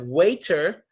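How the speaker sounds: "waiter" with a crisp T, as way-ter; hard T. Shown as a demonstration. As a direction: sound the T clearly in "waiter". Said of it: "instead of saying waiter".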